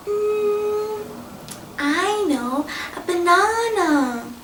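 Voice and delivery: a hint of a boy's bright idea; pleased idea. A narrator's reading. Alfie has an idea.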